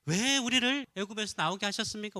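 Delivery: loud acted grumble of protest; resentful complaint. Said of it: "불평하고 원망하면서 뭐라고 말해요?". (원망하며 따지는 흉내)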